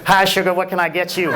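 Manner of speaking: put-on Southern accent. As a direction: retell it as a Southern fast-food server. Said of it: "You have an accent".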